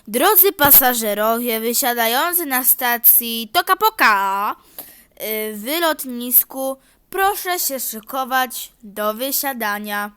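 loud mock station announcer; hammed-up train tannoy; announcement. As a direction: announce over the speakers.

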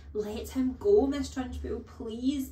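a hint of a desperate young teacher; begging. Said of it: "begged Miss Honey".

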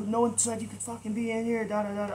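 high-pitched retold scolding; flipping out. Homeowner telling the intruder he has no permission, imitated high flipping out. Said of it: "Flipping out".

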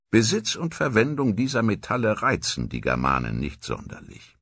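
gemessen vorgelesen, wie ein antiker Chronist; Tacitus-Zitat. Acted. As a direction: lies es wie ein römischer Geschichtsschreiber. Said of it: "wie Tacitus das einst beschrieben hatte". (ein Hauch von altem Chronisten, ruhig vorgetragen)

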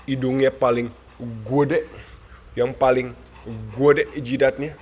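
loud playful teasing of the dog; playful loud mock insult; teasing shout. Real, not acted. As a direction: tease him loudly, grinning. Teasing dog about big nose.

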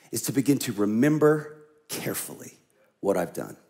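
quiet, deliberate; hushed emphasis. Acted. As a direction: lean in and say it low. Emphatic teaching line.

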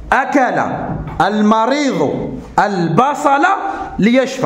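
very slow, word by word reading; slow dictation repeated. Shown as a demonstration. Teacher repeating the sentence slowly for pupils. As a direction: spell it out slowly again.

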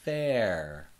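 FAIR drawn out for learners; going slow. Shown as a demonstration. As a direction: stretch FAIR slowly and clearly. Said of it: "going a little slow".

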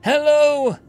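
high, loud sing-song hello; a taunting high hello; mocking enemy greeting. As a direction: greet them with a sneer.

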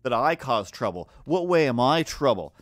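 imitating her yelling at him, half-hearted; mock scream. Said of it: "to scream".

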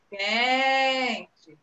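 QUENTE with QUEN drawn out long; teacher's demo call of Quente, stretching the stressed syllable; first syllable held. Shown as a demonstration. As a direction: linger on the QUEN of Quente, short TE. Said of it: "Eu fiquei mais tempo nessa".

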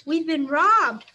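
loud, slow alarmed cry; screaming. A narrator's reading. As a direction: shout it to the whole store. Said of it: "screamed a clerk".

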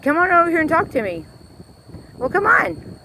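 high, quick coaxing coo; cooing to cows. Real, not acted. Coaxing the cows to come talk, high sweet coo. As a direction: sweet-talk the animals closer.

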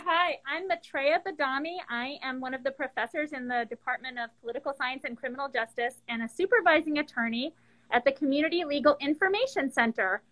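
muffled by a face mask; speaking through a mask. Real, not acted. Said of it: "Can you understand me with the mask on?".

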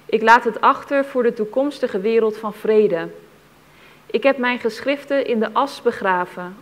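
measured, deliberate reading of a written testimony; solemn testimony reading. Acted. Reader passing on a buried witness account to listeners, solemn. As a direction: read it out with weight, phrase by phrase.

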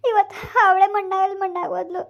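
bitter half-laugh through tears; crying. Acted. Stepmother confessing to her stepdaughter, crying. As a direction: laugh and cry at once. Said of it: "ಅಳ್ಬೇಡಿ".

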